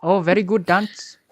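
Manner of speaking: broken English, put-on Chinese accent; fake Chinese accent. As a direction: play a fake Chinese man. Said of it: "acting like Chinese".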